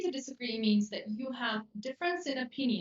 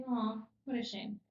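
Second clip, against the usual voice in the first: mildly sorry, understated; a touch of sadness for someone's bad luck; sympathetic sadness; 3 dB quieter than usual. Shown as a demonstration. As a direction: offer sincere, understated sympathy. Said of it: "you have to use your face".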